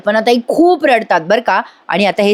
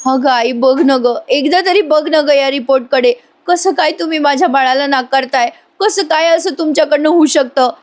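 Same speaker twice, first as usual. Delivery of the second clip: emotional pleading; 4 semitones higher than usual. Retold or imitated. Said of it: "Priya कल्पनाताईंना emotional करत असते".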